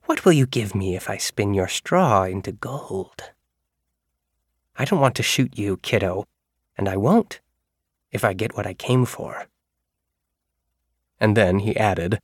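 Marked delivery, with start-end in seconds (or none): 0.1-9.5 light sing-song voice. Acted. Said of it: "light, sing-songy voice".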